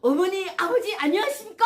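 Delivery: loud, high, formal North Korean greeting; bow and greet the in-laws the Pyongyang way, loud and high; North Korean style greeting. Retold or imitated. Defector greeting her husband's parents for the first time, in a loud, high North Korean style. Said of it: "북한식으로 인사를 드렸어요".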